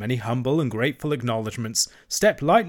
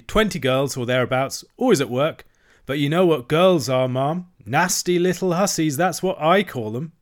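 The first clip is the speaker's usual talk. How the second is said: high, chattering washerwoman voice; Toad as washerwoman; 5 semitones higher, 5 dB louder than usual. A narrator's reading. Toad playing a washerwoman to the barge woman, high and fussy. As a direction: pile on the hard-luck tale, pitched high. Toad bragging about girls.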